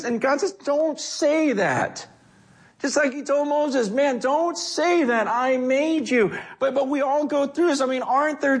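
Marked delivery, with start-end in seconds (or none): 0.6-2.1 slow firm God. Acted. God voiced rebuking Jeremiah. 3.9-6.4 slow firm God. Acted. God voiced to Moses.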